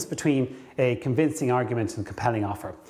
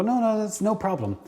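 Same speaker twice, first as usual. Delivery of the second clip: brushing it off; 8 semitones higher than usual. Retold or imitated. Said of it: "and go".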